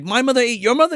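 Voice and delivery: high, hammed-up disbelief; overacted astonishment; mock shocked question. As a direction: ask it aghast, pitch climbing. Acting shocked teens' exchange.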